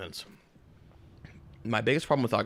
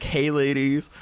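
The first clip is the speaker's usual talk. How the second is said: smooth flirty greeting; 4 semitones higher, 10 dB louder, much slower than usual. Retold or imitated. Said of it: "that guy's like".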